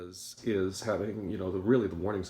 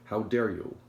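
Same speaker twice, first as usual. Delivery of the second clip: louder mock outrage; indignant rebuke; 3 semitones higher, 7 dB louder, slower than usual. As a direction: say it loudly, affronted.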